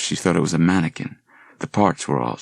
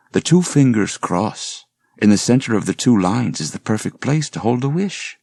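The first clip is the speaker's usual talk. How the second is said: lightly voiced flirtatious man, higher and louder; a hint of a smooth talker charming her; charming professor; 4 semitones higher, 3 dB louder than usual. Liam flirting with the landlady Andrea, lightly voiced charm.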